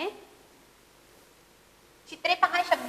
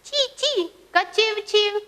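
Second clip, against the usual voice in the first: chirp choice; 7 semitones higher, slower than usual. Shown as a demonstration. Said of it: "चिमणी".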